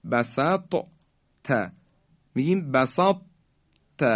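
بسط said with a firm, heavy ط held unreleased before ت. Shown as a demonstration. Tajwid teacher shows learners incomplete merging, بسط with a heavy ط. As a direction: show the heaviness of ط in بسط, then a separate ت. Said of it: "ببینید این درشتی".

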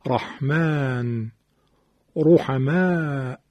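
slow, drawn-out رحمن، رحمه with a full, thick ر; heavy R. Shown as a demonstration. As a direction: recite رحمن، رحمه slowly with ر emphatic and heavy. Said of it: "اول موارد تفخیم را". (رحمن، رحمه با رای درشت و کشیده)

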